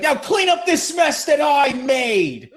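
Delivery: hammed-up bossy dad; mock stern order. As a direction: order them to clean up. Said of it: "Psycho Dad's like".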